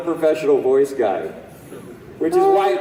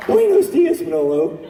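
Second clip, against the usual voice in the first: high, loud Manolo greeting; 10 semitones higher, 4 dB louder than usual. Pretend. Fan asks him to voice Manolo, loud high greeting. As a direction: belt it out as Manolo. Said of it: "Okay, do Manolo".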